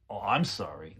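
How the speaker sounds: insincere, confrontational apology; very rude. Shown as a demonstration. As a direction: say the apology rudely. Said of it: "in a very rude way".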